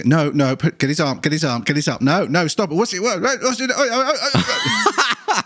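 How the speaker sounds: frantic hospital staff, rising to a laughing squeal; panicked staff shouting. Retold or imitated. Staff voiced during sedated struggle.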